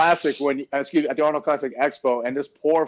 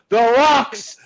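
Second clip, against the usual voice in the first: imitating Nasser; 7 semitones higher than usual. Retelling Nasser griping about rocks, mock grumble. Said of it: "He said".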